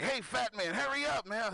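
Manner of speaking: put-on sing-song the taunt like a bratty kid; a kid taunting a big man at the buffet, mocking. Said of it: "he's taunting me".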